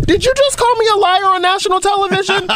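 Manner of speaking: high, sharp indignant challenge; indignant Warren. Retold or imitated. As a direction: confront him, outraged. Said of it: "she rolled up on him and was like".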